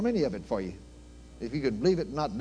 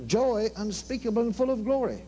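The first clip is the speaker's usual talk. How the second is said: higher, fervent echo of the verse; fervent repeat; 7 semitones higher than usual. Real, not acted. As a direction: ring the verse out with joy. Repeating scripture with fervor.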